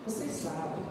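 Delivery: soft, pointed warning; stern quiet grandma. Retold or imitated. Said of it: "Ela para e fala assim". (avó severa falando baixo)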